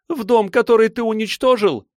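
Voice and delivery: high and loud, bitterly accusing; bitter accusation. A narrator's reading. Silva throws the destroyed home at him, high and loud.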